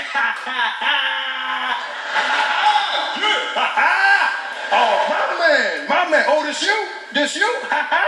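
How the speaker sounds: loud, high, slow cool black American laugh and greeting; hammed-up black American bravado. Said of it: "I was like".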